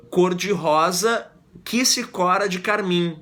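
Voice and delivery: slow, deliberate metrical reading; scanning the verse. Shown as a demonstration. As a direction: tap out each poetic syllable slowly. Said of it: "mesma quantidade poética".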